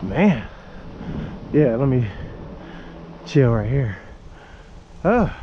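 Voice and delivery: winded after a climb; catching breath between words. Real, not acted. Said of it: "feel my heart".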